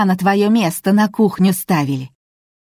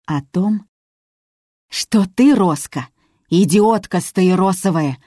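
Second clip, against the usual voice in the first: boiling over. A narrator's reading. Cook insulting Роска, boiling over. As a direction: let the cook's temper boil over. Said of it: "вскипела повариха".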